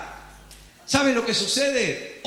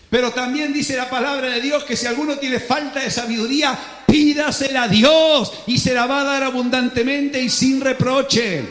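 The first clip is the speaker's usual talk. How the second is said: louder, driving preacher's proclamation; impassioned pulpit preaching; fiery preaching; 4 dB louder than usual. Acted. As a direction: thunder out the promise. Preaching at full force.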